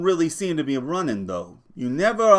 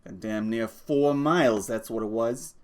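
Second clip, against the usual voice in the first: griping; 3 semitones higher, 4 dB louder than usual. Acted. George griping about bus driver.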